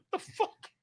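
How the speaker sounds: whispered, laughing high what the fuck; laughing disbelief. Retold or imitated. With manager on phone call, whispered laughing shock. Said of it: "looking at each other like".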